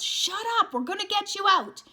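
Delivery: put-on loud, high yell at the screaming kid. Johnny yelling at a screaming child in the burning church. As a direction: bark it to cut through the screams. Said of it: "Johnny yelled".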